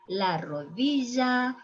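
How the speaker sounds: rodilla as "rodija"; voiced j pronunciation. Shown as a demonstration. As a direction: say rodilla with a buzzed zh. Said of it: "Three ways".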